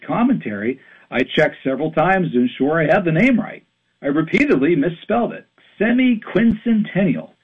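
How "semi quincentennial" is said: Semi-quincentennial pitched high, then falling; Semi-quincentennial said high in exasperation, falling at the end; exasperated high naming. Shown as a demonstration. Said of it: "It's so clunky and unappealing".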